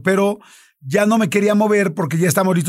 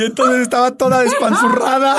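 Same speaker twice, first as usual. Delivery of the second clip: half-laughing, half-groaning the words; disgusted giggly telling; 5 semitones higher than usual. Real, not acted. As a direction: laugh through your disgust.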